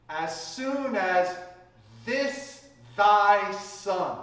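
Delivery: slow each word, hit thy hard; stress on thy. Shown as a demonstration. Preacher stressing the son's words, slow and pointed. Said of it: "now catch the words".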